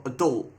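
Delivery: "adult" stressed on the second syllable, a-DULT; American pronunciation. Shown as a demonstration. Correcting himself for viewers, "adult" as American a-DULT. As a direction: say "adult" with a weak first vowel, a-DULT. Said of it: "that's how they say it over in America".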